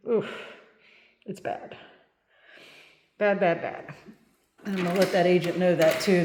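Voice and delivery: muffled through a shirt over the nose; through a face mask. Real, not acted. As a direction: talk with your shirt pulled over your nose. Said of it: "I'm having to put my shirt over my nose".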